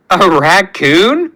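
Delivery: "a raccoon?" asked slowly with a rising, unsure tune; slow, wondering "raccoon?" lifting at the end; puzzled question. Acted.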